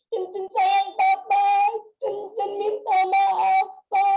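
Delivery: retold desperate cry. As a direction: call it out slowly and loudly, stopping short of a scream. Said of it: "saya berteriak sekuat yang saya bisa".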